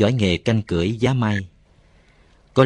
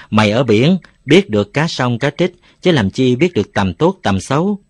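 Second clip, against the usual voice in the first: mocking jibe; 4 semitones higher, 5 dB louder than usual. Boy mocks Cù Lao.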